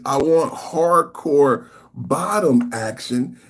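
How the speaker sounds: slow drawn-out quote; mock reading. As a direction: stress on want, slow. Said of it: "she says".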